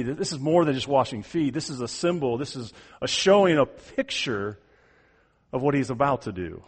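ordinary talk

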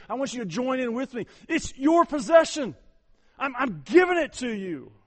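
loud, high, preaching as Christ; voicing Christ. Preacher voicing Christ, loud and pleading. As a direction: cry out Christ's offer at full force.

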